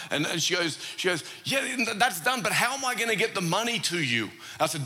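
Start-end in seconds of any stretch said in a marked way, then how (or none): 1.4-4.3 higher-pitched imitation of a worried shopper; fretting, lightly acted; mock concerned. Shopper asking how to repay the stranger, worried.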